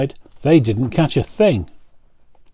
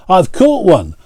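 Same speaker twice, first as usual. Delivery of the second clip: high, loud excitement; excited; 7 semitones higher, 6 dB louder than usual. A narrator's reading. John cheers his first catch, high and loud. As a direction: announce the catch with glee.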